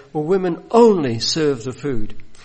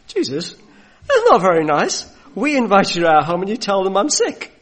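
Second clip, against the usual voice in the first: mock-offended, laughing and louder; laughing protest; 4 semitones higher, 5 dB louder than usual. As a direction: tease back, hurt but amused.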